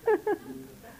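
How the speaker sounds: short high chuckle; laugh. Real, not acted. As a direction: give a brief high laugh. Cười sau lời khen đùa. (cười ngắn giọng cao)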